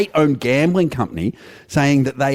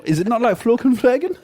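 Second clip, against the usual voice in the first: put-on Norwegian accent; 12 semitones higher than usual. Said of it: "your Norwegian accent".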